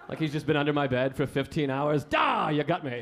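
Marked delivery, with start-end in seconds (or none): 2.0-3.0 mock caught out. Imagined man found under the bed.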